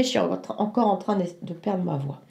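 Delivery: hoarse, fading voice; losing her voice. Real, not acted. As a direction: voice giving out. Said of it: "Voilà, vous voyez".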